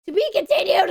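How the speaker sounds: loud, high to be continued call; dramatic announcer. Acted. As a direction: announce it like a cliffhanger. Game narrator announcement.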